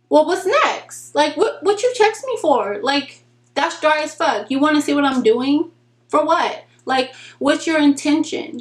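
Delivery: exasperated. Real, not acted. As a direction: call out the dry texter, annoyed. Ranting at dry texters.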